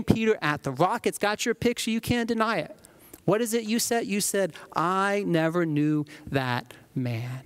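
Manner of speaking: a hammed-up scold waving the receipts; a preacher lightly playing a gotcha accuser; cancel culture Christ. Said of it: "what would a cancel culture Christ do".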